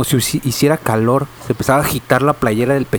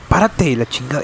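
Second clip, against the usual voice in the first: retold shout. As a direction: snap the order out at him. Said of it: "Entonces me grita".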